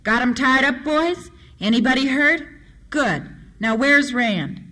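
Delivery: hearty commanding call; big booming voice. Acted. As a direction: boom out quick questions to the men. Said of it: "a big voice boomed".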